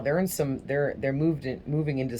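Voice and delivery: tripping over words; stumbling stutter. Real, not acted. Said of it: "I'm stuttering".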